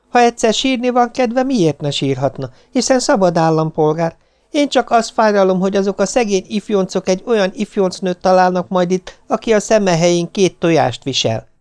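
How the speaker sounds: high, argumentative wife's voice; indignant wife. A narrator's reading. Wife defends the crying girl to her husband, indignant and high.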